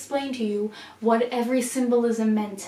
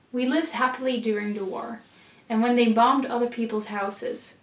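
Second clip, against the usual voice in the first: poem reading. Acted. Vlogger reading a war poem to viewers, measured recital. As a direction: read the poem aloud, measured and steady. Reads the intro poem aloud.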